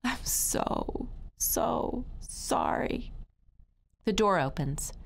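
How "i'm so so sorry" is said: high, thin whimper with breaks between words; crying plea. Acted. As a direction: whimper it out haltingly, nearly voiceless. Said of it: "I cried".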